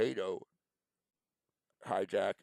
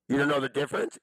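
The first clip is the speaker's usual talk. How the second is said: louder, rising, accusing "You don't know the difference?"; loud accusing question; 3 semitones higher, 6 dB louder, faster than usual. Real, not acted. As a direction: throw "don't" at him as a loud challenge. Angry rant at an absent person.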